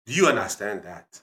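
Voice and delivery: put-on firm African-accented check. Dad checks listener has understood, African accent. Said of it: "African accent".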